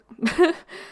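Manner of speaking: sudden cough mid-sentence; short loud cough; coughing fit. Real, not acted. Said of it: "j'arrête pas de tousser".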